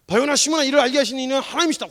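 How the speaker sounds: loud, high, emphatic praise; acted proclamation. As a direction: proclaim it grandly as a retold quote. Retold proclamation praising a disciple. (높고 우렁차게 선포하는 흉내)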